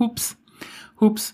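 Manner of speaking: high startled little oops. Real, not acted. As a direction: yelp it out like a near spill. Drink nearly spilled, oops.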